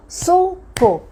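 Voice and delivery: "suco" very slow, split into su, co; syllable by syllable. Shown as a demonstration. Teacher showing how many syllables a word has, syllable by syllable. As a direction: clap out "suco" with a gap between syllables. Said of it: "quantas sílabas tem, pode ser na palma".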